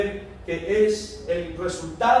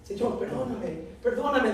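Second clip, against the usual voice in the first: pleading; 2 semitones higher than usual. Acted. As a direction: plead with God, voice small. Sinner begging God for forgiveness.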